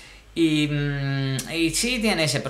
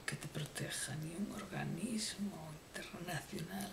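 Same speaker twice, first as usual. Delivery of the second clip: hushed, slow, much softer mock-tragic whisper; mock-dramatic whisper; 2 semitones higher, 14 dB quieter, slower than usual. Comic narrator laments invading sadness in a hushed whisper. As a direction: breathe it like a grave secret.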